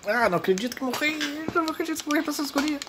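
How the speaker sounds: high frustrated wail; raging gamer. Real, not acted. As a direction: howl in disbelief at dying. Dies in game, frustrated.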